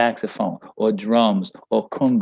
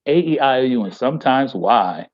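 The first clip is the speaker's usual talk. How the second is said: mocking school recitation. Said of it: "School teachers, every time I hear it, I cringe".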